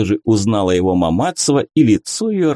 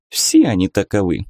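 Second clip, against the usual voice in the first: plain reading voice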